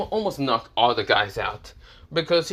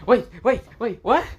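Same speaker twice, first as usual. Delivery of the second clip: loud, high double take; high, loud shocked outburst; 11 semitones higher, 6 dB louder than usual. Acted. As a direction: blurt it out in disbelief. Irina hears of two fiancées.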